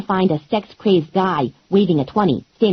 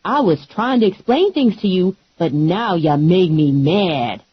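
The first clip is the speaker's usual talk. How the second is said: sassy Lula; slower than usual. Acted. Lula warning the wrestlers, lightly voiced and sassy. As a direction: tell them off with attitude. Lula's voice.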